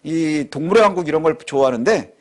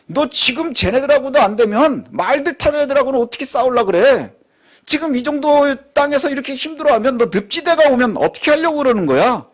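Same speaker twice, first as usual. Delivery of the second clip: God rebuking; 6 semitones higher than usual. Acted. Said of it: "이렇게 말씀하고 있어요".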